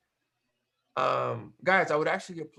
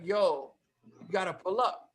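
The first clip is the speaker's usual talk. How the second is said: pitched-up, mildly excited quote; excited retold invitation; 5 semitones higher than usual. Friend urging him to come over, mildly excited. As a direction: imitate a friend getting keyed up. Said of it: "Flips his lid".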